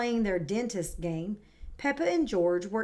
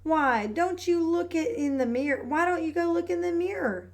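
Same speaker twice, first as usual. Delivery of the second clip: higher, kind mum voice; gentle mother; 7 semitones higher than usual. Acted. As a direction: suggest it like a patient mum. Mummy Pig suggests to Peppa.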